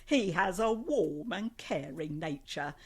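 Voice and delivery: measured, careful read-out; recited personal profile; reading a profile aloud. Acted. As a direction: read it out like a written description. Reads a dating profile aloud.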